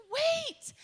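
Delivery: running after them, calling to stop. Retold or imitated. Greeter running and waving after the family, loud high call.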